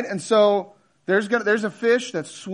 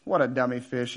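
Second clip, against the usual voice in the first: scornful fish; 8 semitones lower, 5 dB quieter than usual. Acted. Other fish scorning the victim.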